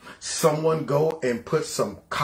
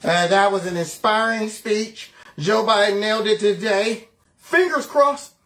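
higher, hammed-up fake admiration; pretend praise; 5 semitones higher, 3 dB louder than usual. Pundits pretending this man's normal, mock enthusiastic praise. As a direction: gush as if pretending all is normal. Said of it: "try their best to pretend".

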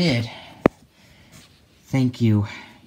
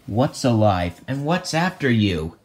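ordinary talk

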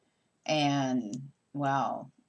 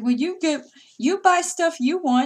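higher put-on voice of a defensive teen son; imitating her son; 13 semitones higher, 8 dB louder than usual. Mother mimicking her son's defensive excuse, higher voice. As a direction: mimic him brushing it off.

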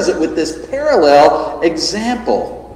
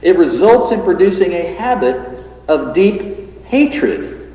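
solemn reading; 2 semitones higher than usual. A narrator's reading. Preacher reading J C Ryle's notes aloud, solemnly. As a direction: read with gravity and emphasis. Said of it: "when he says this".

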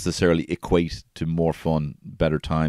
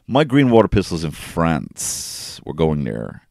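put-on slow, louder child's insistence; little Sonny; 4 dB louder, slower than usual. Sonny announcing his lost toy to a stranger, slow and emphatic. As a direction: lean on green like a determined little boy. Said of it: "He might just say that".

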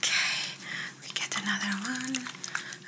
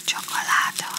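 whisper in ear; 6 dB louder than usual. Shown as a demonstration. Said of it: "you tell me if you still hear the whisper".

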